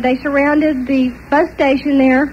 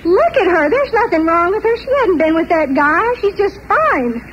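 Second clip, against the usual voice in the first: retold angry outburst, pitched higher; husband relieved and angry at his smiling wife, raised and heated; furious husband; 4 semitones higher than usual. Heated, higher-pitched retold rant. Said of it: "he was furious".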